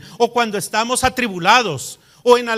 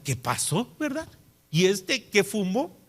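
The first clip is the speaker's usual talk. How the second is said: much softer, half to herself; puzzled murmur; 7 dB quieter than usual. Retold or imitated. Wife quietly mocking husband's sour mood, soft wry murmur. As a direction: mutter it as a wry private joke.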